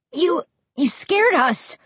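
high, slow stammered reproach; angry. A narrator's reading. Josh to Ray after the scare, angry. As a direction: stumble on the first word, then scold. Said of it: "Josh said angrily".

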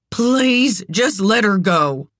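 high, urgent begging; beg, starting high on the first word; anguished appeal; desperate plea. A narrator's reading. Mother begs for her child.

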